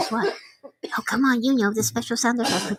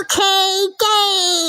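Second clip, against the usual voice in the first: high squeaky chipmunk call; sped-up cartoon chipmunk shout; 10 semitones higher, 5 dB louder, much slower than usual. Real, not acted. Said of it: "Do I sound like a chipmunk there?".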